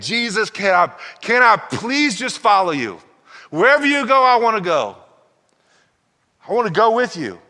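high, eager pleading; freed man begging Jesus to let him follow, high and eager. Acted. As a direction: plead to tag along, voice up high.

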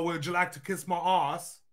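lightly put-on English accent. Showing how the England people talk, mock English accent. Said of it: "The England people".

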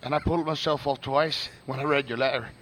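James Joyce's letter in a put-on accent; Southern-style accent. Reading Joyce's letter to Nora, put-on Southern-style accent. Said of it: "you can just do the Southern".

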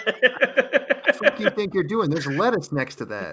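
loud, high outraged yelling; hammy disbelief at the food; indignant rant. Retold or imitated. Acted rant at the crepe maker.

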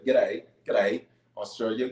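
put-on light go at an Australian accent; mock Australian accent, lightly done. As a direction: practise an Aussie greeting. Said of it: "when I think of Australian accents".

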